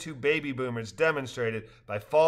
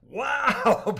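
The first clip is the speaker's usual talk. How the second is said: mock surprise; 11 semitones higher, 5 dB louder than usual. A narrator's reading.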